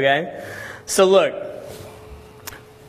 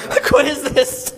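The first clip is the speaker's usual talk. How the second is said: disbelief; 10 semitones higher, slower than usual. Retold or imitated. Shocked at the story.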